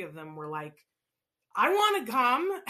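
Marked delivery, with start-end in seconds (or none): 1.6-2.6 put-on high, loud, drawn-out kid plea; eager kids. Little nieces and nephews begging to join the pretend car ride, eager and loud.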